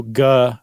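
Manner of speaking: "ga" said as guh with a hard G. Shown as a demonstration. Host showing the third syllable, "ga" with hard G. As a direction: say "ga" like the start of gun. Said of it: "It's always a G".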